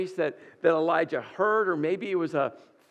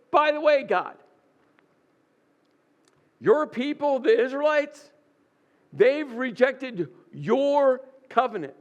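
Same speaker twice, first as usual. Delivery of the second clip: raised, higher accusing voice; Elijah's pointed complaint; 5 semitones higher than usual. Acted.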